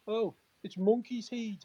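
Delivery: high, loud, drawn-out taunt; drunken jeer. Retold or imitated. Drunk player spotting his manager, imitated jeer. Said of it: "a little bit worse for wear".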